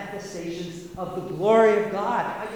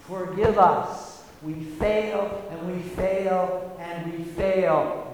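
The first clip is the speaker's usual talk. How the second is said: mock penitent; slower than usual. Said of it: "beat our breasts and say".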